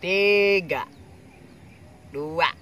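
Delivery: loud, rising countdown; excited countdown. Acted. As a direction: count down loudly before the bite. Countdown before tasting.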